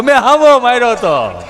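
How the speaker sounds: put-on loud, cracked wail of a crying boy; loud hoarse schoolboy bawl. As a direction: howl it like a big boy crying. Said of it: "ગૌઠી પાડી જેવો અવાજ".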